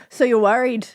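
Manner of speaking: imitated slip into Scottish; brief Scottish-accented question; mock Scottish accent. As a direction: ask it like a Scotsman. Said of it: "a weird Scottish accent".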